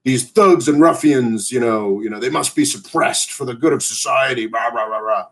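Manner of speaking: sneering imitation of an outraged pundit; mocking pundit voice. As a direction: ham up a blustering cable news host. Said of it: "already Fox News, of course, is, uh, on the".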